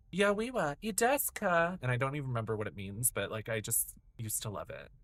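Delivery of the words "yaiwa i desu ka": much higher, louder bright question; fighting game character voice. Retold or imitated. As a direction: toss it out like a cheeky anime fighter. Imitating Tiffany from fighting game.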